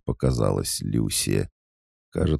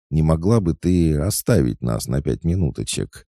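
sugary menace; 6 semitones higher, 4 dB louder than usual. Acted. Oksana sweetly dismissing Lucy.

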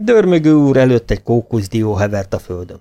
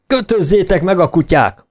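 mock roar; 7 semitones higher than usual. A narrator's reading. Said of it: "Ordította egy olasz káplár".

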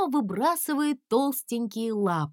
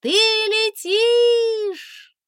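high, loud drawn-out delight; delighted cry; 12 semitones higher, 7 dB louder, much slower than usual. A narrator's reading. Princess calling in delight to the flying dragon. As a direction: marvel at him flying.

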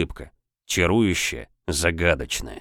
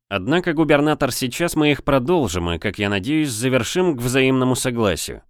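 a hint of a smug captain; confident corsair captain; 5 semitones higher than usual. Serov taunts the governor.

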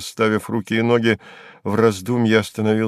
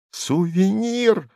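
call out; 9 semitones higher, much slower than usual. A narrator's reading. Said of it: "закричал я вторично".

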